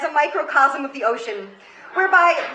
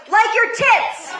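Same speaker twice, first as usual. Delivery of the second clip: mocking schoolboy taunt; 7 semitones higher, 4 dB louder, slower than usual. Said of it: "To which Daniel replied".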